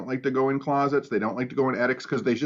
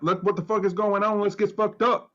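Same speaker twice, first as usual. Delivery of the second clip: mock preacher; 6 semitones higher than usual. Mock preacher rallying congregation.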